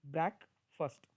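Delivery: ब्रेकफास्ट said BREK-fust, short unstressed second syllable; the proper ब्रेकफास्ट, brek-fəst; correct breakfast. Shown as a demonstration. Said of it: "this is the proper pronunciation".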